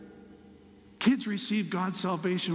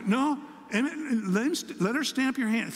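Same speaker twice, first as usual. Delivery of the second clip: put-on higher child voice, correcting; bossy little grandson; 6 semitones higher than usual. Grandson telling his pop to get his hand stamped, higher child voice. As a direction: play the boy setting his pop straight.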